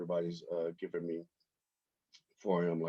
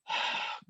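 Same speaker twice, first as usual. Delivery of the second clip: imitated sigh; 8 dB quieter than usual. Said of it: "he would sigh".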